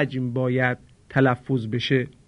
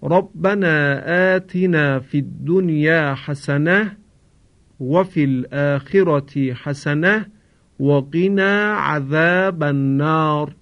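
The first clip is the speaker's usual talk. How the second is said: recited verse. Shown as a demonstration.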